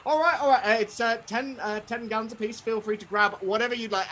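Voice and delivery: high, hesitant patter under pressure; flustered stallholder. Acted. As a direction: placate a swarming crowd of children. Stallholder serves swarming children.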